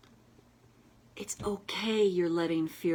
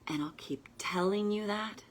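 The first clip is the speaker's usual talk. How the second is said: unvoiced, soothing reassurance; 2 semitones higher than usual. Real, not acted. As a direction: whisper the promise gently. Soothing whispered affirmation.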